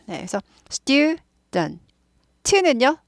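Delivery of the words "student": student slowly as STYUU-dn, t left unreleased; long first syllable in student, ending swallowed; unstressed final t. Shown as a demonstration. Teacher modelling student, final t not emphasised. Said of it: "강조되지 않아요".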